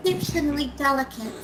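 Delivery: quick Kiwi exceptionally delicate; exceptionally delicate in a New Zealand accent. Shown as a demonstration. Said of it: "Say exceptionally delicate for me again".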